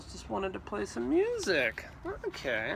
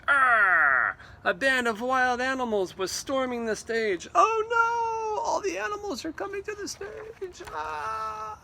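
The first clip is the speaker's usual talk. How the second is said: high panicked cries of alarm; frantic high yelling; panicked conductor; 11 semitones higher, 4 dB louder than usual. Acted. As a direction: shriek as the animals charge the stage.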